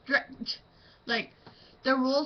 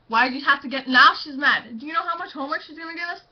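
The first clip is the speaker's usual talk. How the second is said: acted angry rant; 4 semitones higher, 6 dB louder, faster than usual. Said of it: "That's probably how it would act".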